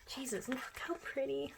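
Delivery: soft high awed murmur. Real, not acted. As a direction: gush quietly at the photo. Gushing over idol photos.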